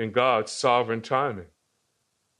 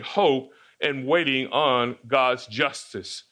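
slow, spelling out "hope and waiting on God's justice"; slow, weighty restatement; slower than usual. Shown as a demonstration. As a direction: lay down "hope and waiting on God's justice" slowly as the main point. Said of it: "that's our focus for this morning".

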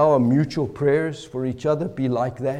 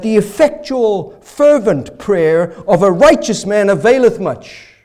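scripture recitation; 2 semitones higher, 4 dB louder than usual. Shown as a demonstration. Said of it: "like the King James puts it so beautifully".

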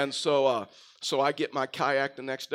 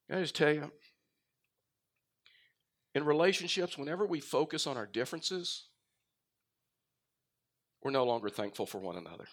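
hushed aside. Real, not acted. Quiet intimate aside in sermon.

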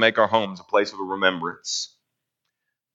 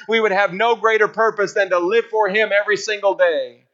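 higher-pitched, building sermon delivery; impassioned preaching; 7 semitones higher than usual. Acted. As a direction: preach it with rising conviction.

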